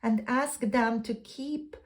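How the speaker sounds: deliberate read-aloud with pauses between phrases; measured card reading. Acted. Reads second card's guidance aloud.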